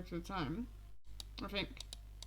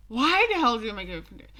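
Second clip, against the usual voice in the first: exasperated, fast and loud; frustrated; 5 dB louder, faster than usual. Real, not acted. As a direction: rant it out in frustration. Frustrated rant at the game.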